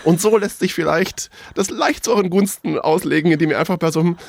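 talking with a mouthful of cereal; mouth full. Real, not acted. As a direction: speak around a mouthful of food. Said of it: "der mit vollem Mund spricht".

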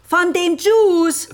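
mocking repeat of a foreign word; emphatic scornful repeat. Repeating the word to a puzzled listener.

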